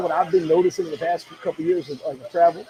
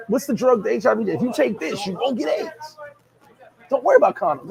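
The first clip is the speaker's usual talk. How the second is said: mock commenter voice; 5 semitones higher than usual. Mocking a commenter's claim.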